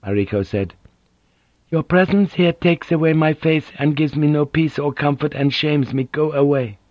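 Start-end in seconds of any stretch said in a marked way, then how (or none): 1.7-6.8 higher voice of a proud injured lady; a dignified woman, hurt and firm; proud wounded noblewoman. Acted. Narrator voices Mariko.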